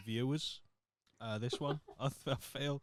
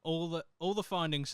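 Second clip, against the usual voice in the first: slightly raised, emphatic mock announcement; mild mock screaming; 6 semitones higher than usual. Podcaster rereading a listing as if in capitals, mildly raised. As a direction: read as if in block capitals. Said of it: "She's actually screaming this".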